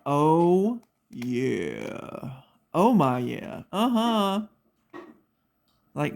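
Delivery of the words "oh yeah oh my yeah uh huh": dazed on morphine. Retold or imitated. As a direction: sound blissfully drugged and unbothered. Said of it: "I was like".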